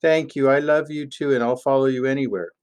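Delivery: a hint of an adoring sheep; devoted sheep. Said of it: "And sheep says".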